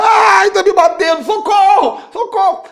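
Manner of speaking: very high, slow wailing cry for help; whining demon victim. Pretend. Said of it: "começar a chorar". (demônio se fazendo de vítima, choramingando agudo)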